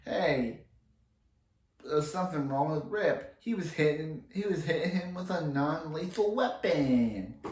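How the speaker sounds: tossing off Jax's worried line in mild mock; imitating Jax. Jax warns the team about Rip, lightly imitated. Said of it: "That's basically how he said it".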